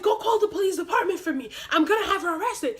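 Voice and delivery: mock him ordering people about; lightly mocked big-guy threat; imitating a threatening official. Acted threat from school employee.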